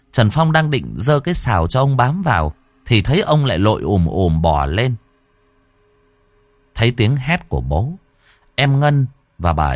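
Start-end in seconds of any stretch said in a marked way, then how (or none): none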